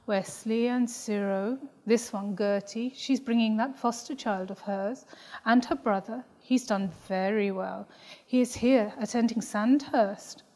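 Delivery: a hint of an unhurried Tamil mother reciting the guest list; mother's voice. Mother lists the party guests.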